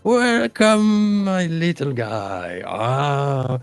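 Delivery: high, drawn-out fawning welcome; high, sugary innkeeper pitch; Bitsy the barmaid. Acted. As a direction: sell to the little customer sweetly. Barmaid greets hobbit.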